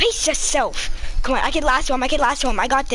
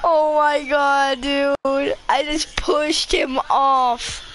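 slow, stretched-out gloating; drawn-out amazement; 2 semitones higher, much slower than usual. Real, not acted. Player who just pushed someone off, slow amazed gloating. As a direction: draw every word out slowly.

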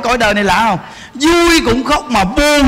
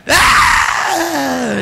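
mock wail; 3 semitones higher than usual. Imitating a woman bursting into tears.

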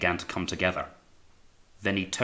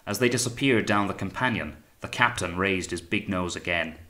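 plain reading voice

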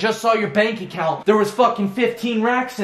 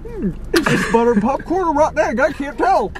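mock musing; 9 semitones higher than usual. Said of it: "I'm just".

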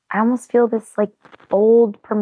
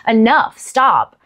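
mock crying out; 3 semitones higher, 4 dB louder, much slower than usual. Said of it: "I was actually crying out".

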